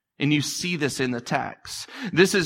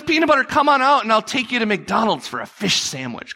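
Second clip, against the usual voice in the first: higher, lightly voiced grandma; sweet grandma coaxing; 6 semitones higher than usual. Grandma gently coaxing the boy out from hiding. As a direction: coax him out sweetly. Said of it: "She goes".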